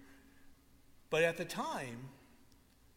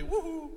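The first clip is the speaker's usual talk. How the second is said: imitated woohoo; 11 semitones higher than usual. Imitates Canada going off the rails.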